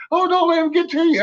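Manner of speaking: high mock-sympathetic commenter voice. Mocking commenters who tell him to ignore the troll, high and fast. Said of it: "people are like".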